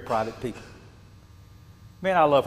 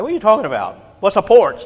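incredulous protest; 7 semitones higher, 7 dB louder, faster than usual. Retold or imitated. Young self protests to his dad.

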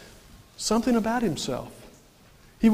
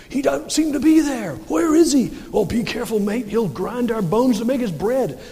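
lightly acted villagers, pitched up at first; mock worried peasants; 4 semitones higher than usual. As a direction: play a wary villager warning a mate. Voices nervous peasants at ogre's house.

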